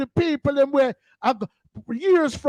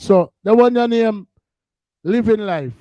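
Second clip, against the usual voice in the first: loud shout-out; 2 semitones lower, 6 dB louder than usual. Real, not acted.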